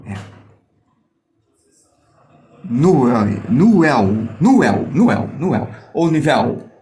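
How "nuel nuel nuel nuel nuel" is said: Nuel said with the W as an "oo" glide; trying out a name. Shown as a demonstration. Teacher attempting a viewer's name, trying out Nuel as "noo-EL". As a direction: sound out Nuel as "noo-EL", take after take. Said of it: "Sei pronunciar como vê".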